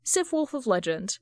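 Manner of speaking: usual speaking voice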